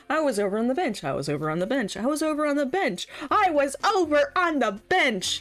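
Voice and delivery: repeats building to a high, hammy yell; escalating mock scream. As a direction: start controlled, then climb into comic yelling. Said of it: "Why are you screaming at me?".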